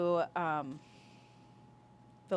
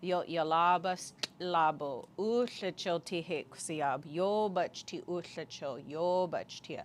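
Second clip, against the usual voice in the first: ceremonial speech; 3 semitones lower than usual. Retold or imitated. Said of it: "what they say at each corner".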